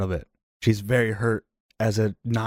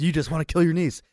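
exasperated outburst; 7 semitones higher than usual. Acted. Furious at Victor for wanting to kill his niece, high exasperated outburst. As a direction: pitch shoots up in disbelief. In-character argument peak.

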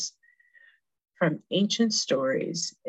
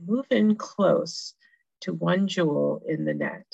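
sultry narrator. Acted. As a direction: lead them gently into the image. Guides listeners to visualize.

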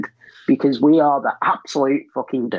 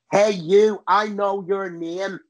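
higher-pitched, harsh Northern Irish demo; harsh Northern Irish accent; 6 semitones higher, slower than usual. Shown as a demonstration. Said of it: "kind of harsh and like".

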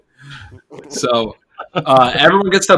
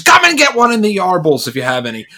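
higher-pitched mock British droog; Alex DeLarge; 4 semitones higher than usual. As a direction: taunt in a put-on British accent. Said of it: "he'll be Alex DeLarge soon".

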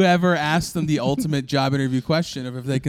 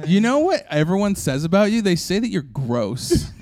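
put-on mean girl; 4 semitones higher than usual. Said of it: "It's just a mean girl".

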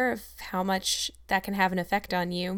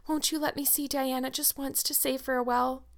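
imploring; 5 semitones higher than usual. Acted. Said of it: "she implored".

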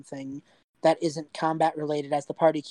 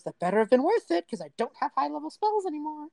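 irritated Janice; 9 semitones higher, faster than usual. Acted. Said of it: "Janice looks at you and just goes".

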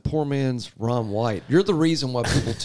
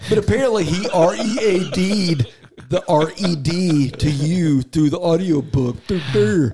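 laughing tease; 5 semitones higher, 4 dB louder, slower than usual. Real, not acted. Teasing spelled wordplay.

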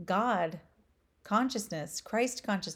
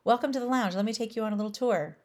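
high, bright, fast host greeting; a beaming host showing guests around; cheerful lounge host; 4 semitones higher, 4 dB louder than usual. Retold or imitated. Lounge guy greeting a traveler, eager and beaming. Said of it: "He's like".

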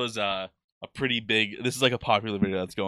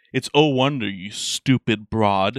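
louder "Oh Wonder", then drawn-out "stupid broad"; mock exasperated correction; 4 dB louder, slower than usual. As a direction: scold her in mock outrage, dragging the insult out. Mock scolding correction of passenger's accent.

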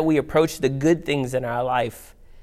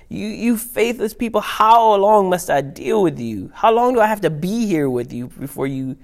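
exasperated, high and louder; Jesus; 6 semitones higher, 4 dB louder than usual. Acted. Jesus talking to his disciples, frustrated. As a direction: act out fed-up frustration, stretching the words. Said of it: "Jesus is frustrated".

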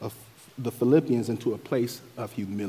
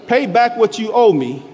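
louder, higher demand, mildly acted; 9 semitones higher, 7 dB louder than usual. A narrator's reading. Servant to a fellow servant who owes him, mildly demanding. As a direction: read it as a firm demand. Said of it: "he demanded".

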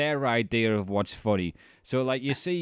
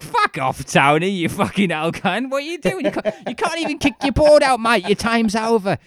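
loud, high, aggressive yelling; much higher and louder jeering thug voice; mock Scarface thug; 11 semitones higher, 7 dB louder than usual. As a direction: bark at him like a coked-up gangster. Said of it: "the Diaz brothers from fucking Scarface are like".

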